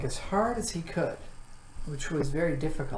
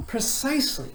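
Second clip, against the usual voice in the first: shout; 10 semitones higher than usual. A narrator's reading. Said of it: "shouted the dog".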